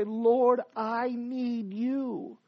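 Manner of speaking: long drawn-out, imitated plea; broken cry. Preacher voices the humbled sinner's prayer, a drawn-out broken plea. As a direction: plead slowly, as if broken. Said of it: "they cried and say".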